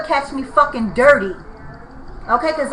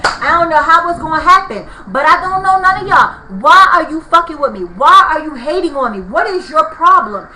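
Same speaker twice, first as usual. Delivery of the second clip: louder, heated confrontation; standing her ground, voice raised; retold telling-off; 6 dB louder than usual. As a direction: lay into them in front of everyone. Retold telling off the corner crowd.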